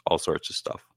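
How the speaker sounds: talking while chewing; mouth full. Real, not acted. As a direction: speak around a mouthful of meat. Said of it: "listening to myself chew".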